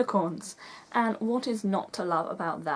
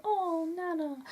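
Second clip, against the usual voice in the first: audience sigh; 10 semitones higher, slower than usual. Retold or imitated. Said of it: "you'll go".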